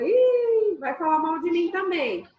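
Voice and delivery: high, loud startled "Ih"; mock alarmed date muttering a worry; wary surprise. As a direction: react with sudden suspicion, a step back. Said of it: "Você fala".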